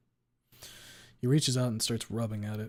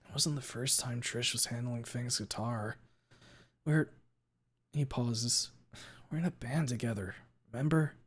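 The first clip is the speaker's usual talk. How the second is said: softer, calmer explanation; 4 dB quieter than usual. Acted. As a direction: settle down and explain. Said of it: "in a much calmer tone".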